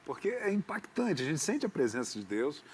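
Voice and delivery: real tearful emotion, voice catching; choked up with real feeling; moved to tears. Real, not acted. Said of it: "eu sou muito sensível".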